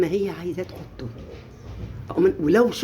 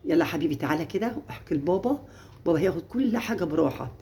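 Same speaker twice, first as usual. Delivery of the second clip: gentle coaxing; 5 dB quieter than usual. Retold or imitated. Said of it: "امسكي يا ام".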